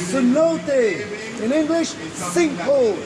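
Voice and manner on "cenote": cenote said as seh-NOH-teh; Spanish pronunciation. Shown as a demonstration. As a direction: say cenote the Spanish way, stressing the middle. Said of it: "Like they say in Spanish".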